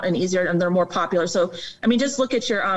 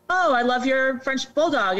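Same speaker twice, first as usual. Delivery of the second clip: higher-pitched mock gushing; gushing admirer; 5 semitones higher than usual. Passer-by admiring someone's French bulldog, imitated gushing.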